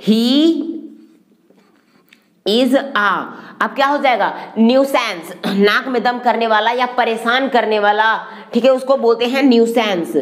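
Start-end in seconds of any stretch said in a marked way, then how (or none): none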